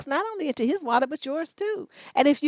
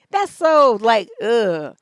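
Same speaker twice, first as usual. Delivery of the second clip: disgusted; 7 dB louder, much slower than usual. Real, not acted. Disgust at whiny men.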